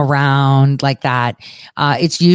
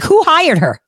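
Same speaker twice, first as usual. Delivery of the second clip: ordinary delivery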